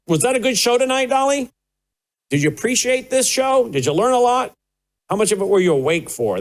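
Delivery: high, sing-song talk to the dog; pet talk. Acted. Host asks the studio dog Dolly about the show in high pet talk. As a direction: coo at the studio dog like a baby.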